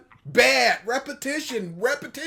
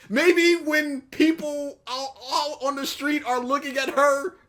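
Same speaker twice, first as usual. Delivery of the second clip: sarcastic; 5 semitones higher than usual. Real, not acted. Sarcastic reply to video critic.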